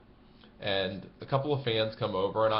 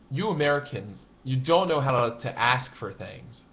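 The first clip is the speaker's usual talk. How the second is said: exasperated sigh; 3 semitones higher, 4 dB louder than usual. Retold or imitated. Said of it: "sighs one more time and goes".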